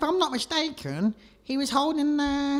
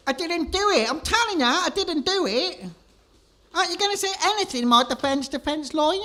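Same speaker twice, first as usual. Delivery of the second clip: high-pitched panicked protest; desperate pleading; 5 semitones higher than usual. Acted. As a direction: beg for your life, rushed. Convicted man protesting.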